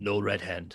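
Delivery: hushed whisper, in a put-on character voice. Passing a guard in character, whispering a warning. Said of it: "I'll just whisper as we're passing".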